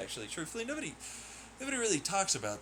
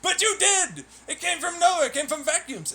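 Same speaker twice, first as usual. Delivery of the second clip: higher, louder hammed-up know-it-all; mock believer retort; 8 semitones higher, 5 dB louder than usual. Gamer mimics a smug free-energy fan, hammed up.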